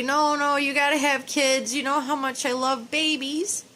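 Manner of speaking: loud, pleading mock plea to her daughter; begging. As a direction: beg her loudly, half in play. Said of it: "I would beg you and say".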